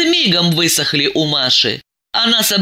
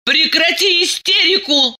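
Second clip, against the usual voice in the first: stern command; 12 semitones higher than usual. A narrator's reading. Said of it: "стукнула кулаком по столу".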